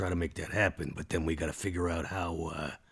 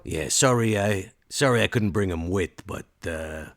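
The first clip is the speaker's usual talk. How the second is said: apologetic Max; 4 dB louder than usual. Acted. Max sorry he couldn't bring him, casually apologetic. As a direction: excuse yourself casually.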